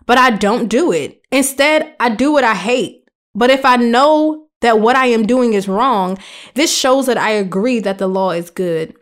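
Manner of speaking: measured Bible reading voice; scripture reading. Acted. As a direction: read the verses like a devotion. Reads scripture aloud.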